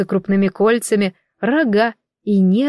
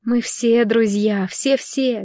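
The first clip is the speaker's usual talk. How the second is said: ordinary delivery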